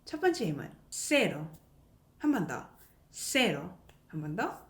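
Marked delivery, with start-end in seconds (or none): 0.9-1.5 single light tap on the r in "cero"; tapped r. Shown as a demonstration. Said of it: "리을 소리가 납니다". 3.1-3.7 single light tap on the r in "세로"; tapped r. Shown as a demonstration. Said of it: "리을 소리가 납니다".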